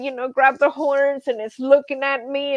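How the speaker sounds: ordinary talk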